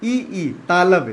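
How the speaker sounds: ई, ई said slowly against the palate; तालु से धीरे; palatal vowels. Shown as a demonstration. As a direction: stretch ई, ई from the palate. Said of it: "देखिए तालु होता है ना".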